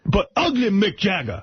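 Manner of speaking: high, slow, mocking call of the street guy; mock yell of homeless guy. Homeless guy heckling him on the street, slow mock yell. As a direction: drag out the taunt like a heckler. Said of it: "and he yells it".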